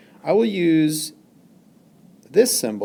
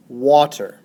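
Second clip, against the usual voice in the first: Water with WA punched, ter falling away; stress on WA; 6 dB louder than usual. Shown as a demonstration. Teacher demonstrating syllable stress, Water stressed on the first syllable. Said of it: "The first syllable, wa, is stressed".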